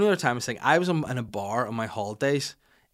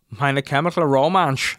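loud, slow mock German; German accent; 3 semitones higher, 9 dB louder, slower than usual. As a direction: draw it out in exaggerated German. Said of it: "he was like".

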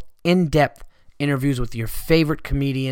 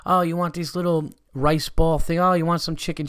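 offering waiter; 5 semitones higher than usual. Retold or imitated. Mock waiter offering food.

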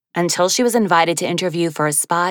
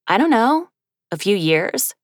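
sheepish; 4 semitones higher than usual. Acted. Woman sheepishly admits.

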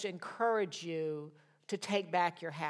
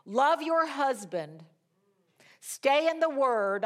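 solemn prophet; 5 semitones higher, 6 dB louder, slower than usual. Retold or imitated.

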